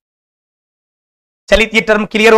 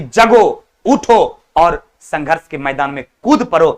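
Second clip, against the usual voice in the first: slow, deliberate call to rise up; a slow exhortation to wake up and fight; slow rousing call; 3 semitones lower, slower than usual. Real, not acted. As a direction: spell out each step slowly to stir the class. Teacher rousing students to struggle.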